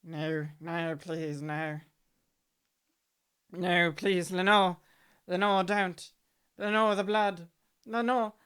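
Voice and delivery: begging, rising to loud cries; pleading in fear. Acted. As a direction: cry out from a nightmare.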